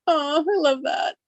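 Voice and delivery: high, slow swooning gush. Retold or imitated. Swooning over Carlos's answer.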